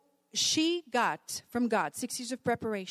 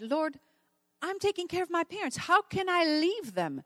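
higher-pitched anguished plea, acted out; retold pleading; 7 semitones higher than usual. Mother pleading with the Lord about leaving her parents, retold plea. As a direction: voice an imploring question, pitched up.

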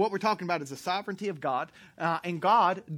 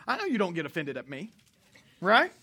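ordinary talk

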